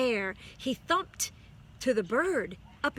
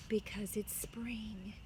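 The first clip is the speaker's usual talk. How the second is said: soft ending; 7 dB quieter, slower than usual. A narrator's reading.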